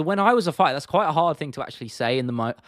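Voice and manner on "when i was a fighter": higher, louder fighter impression; Michael Bisping. Streamer trying a hard impression, higher and louder. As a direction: pitch it up like the retired fighter. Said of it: "Biscuit impression".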